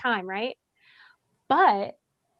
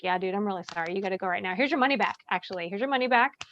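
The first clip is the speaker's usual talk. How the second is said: calm de-escalating; 4 semitones lower, 4 dB quieter, faster than usual. Shown as a demonstration. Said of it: "the more calm we can keep it".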